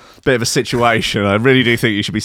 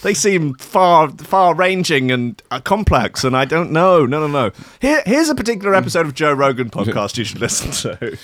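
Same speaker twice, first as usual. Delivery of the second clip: higher, flustered backpedalling friend; panicked fake friend; 4 semitones higher than usual. Fake friend backing out of a heart-to-heart, panicked. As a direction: squirm out of the offer in a rush.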